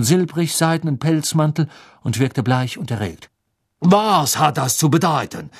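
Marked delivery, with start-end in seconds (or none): 3.8-5.5 calling out. A narrator's reading. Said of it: "rief er".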